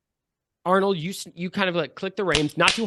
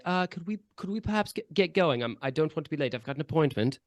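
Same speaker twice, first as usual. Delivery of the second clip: soft, lightly voiced aristocratic passenger; a hint of polite upper-crust impatience, kept soft; high-pitched aristocrat; 5 dB quieter than usual. Aristocrat inside the carriage wanting to get going, politely impatient. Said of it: "you hear a high-pitched aristocratic voice say".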